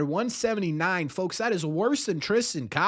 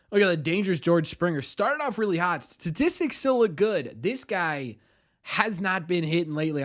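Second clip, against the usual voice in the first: announcer voice. Acted. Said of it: "Do you like my announcer voice".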